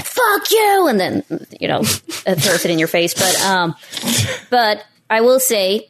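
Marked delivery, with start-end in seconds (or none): 0.0-0.9 imitated rude hang-up. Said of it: "They're like".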